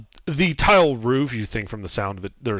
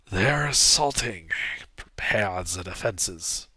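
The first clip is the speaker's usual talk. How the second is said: raspy voice; 3 semitones lower, slower than usual. Acted. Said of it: "that same raspy voice saying".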